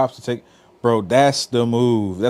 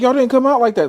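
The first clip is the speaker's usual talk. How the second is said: mock very high, loud, fed-up angry scolding; 13 semitones higher, 6 dB louder than usual. Retelling a continuity director confronting the group: imitating an angry woman. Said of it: "she's mad as fuck".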